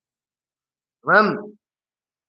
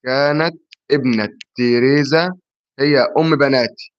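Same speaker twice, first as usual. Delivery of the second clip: slow riddle reading; 3 semitones lower than usual. Shown as a demonstration. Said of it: "ما سمعتش السؤال؟".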